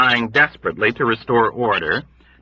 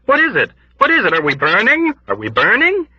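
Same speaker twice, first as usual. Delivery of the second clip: high, loud panicked questions; frantic high-pitched shouts; panicked crying; 12 semitones higher, 4 dB louder than usual. Acted. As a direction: cry out in blind panic. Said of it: "hopping back and forth swiftly in panic, crying".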